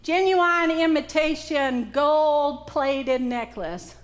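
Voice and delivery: "Genuine" said genu-wine, slow and deliberate; Southern genuine. Shown as a demonstration. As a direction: savour genu-wine slowly.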